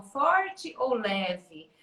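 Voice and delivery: slow, stretched-out Forte ou leve; drawn-out teacherly Forte ou leve; very slow question. Shown as a demonstration. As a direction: draw the question out for the child. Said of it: "Como eu vou fazer carinho na mãe".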